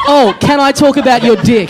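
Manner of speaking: slow, sing-song mock whisper-aside. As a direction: tease it out slowly in a sing-song. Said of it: "very audibly said to Sloss".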